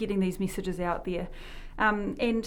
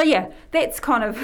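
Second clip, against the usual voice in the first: ordinary talk, nothing marked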